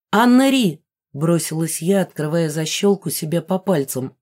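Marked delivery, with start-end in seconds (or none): 0.1-0.8 loud, higher call of a name. A narrator's reading. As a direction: call her sister urgently. Heroine calls out to sister.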